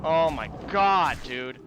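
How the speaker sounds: exasperated groan. Real, not acted. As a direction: stretch it out, fed up. Frustrated at long run back.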